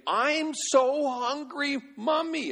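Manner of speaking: put-on very high, slow wailing kid voice; imitating a sobbing boy; mock crying child. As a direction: whine it like a hungry toddler. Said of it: "shouting,... and starts crying".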